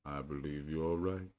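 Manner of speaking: slow, sighing gloomy admission; mild sighing Eeyore; sad sigh. Acted. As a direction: give in with a long sigh. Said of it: "with a long, sad sigh".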